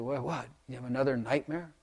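half-asleep wife murmuring; sleepy wife. Retold or imitated. Wife woken at night asking about nightmare, drowsy soft.

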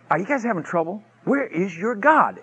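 slowing into a pointed mock question. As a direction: feign concern to needle them. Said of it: "And he mocked them".

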